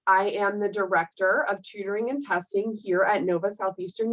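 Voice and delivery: stuffy nose from a cold, nasal; nasal congested voice. Real, not acted. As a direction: talk through a blocked, congested nose. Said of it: "please excuse my nasally voice".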